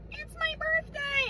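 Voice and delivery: put-on high, drawn-out little-girl voice; high childlike announcement. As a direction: imitate an excited child, stretching the words. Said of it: "the little girl was like".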